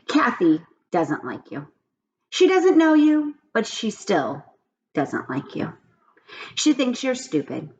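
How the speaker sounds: put-on lively storybook reading for kids; reading aloud to children. A narrator's reading. Teacher reading a chapter book to her class, animated storytelling. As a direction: tell the story to the class with expression.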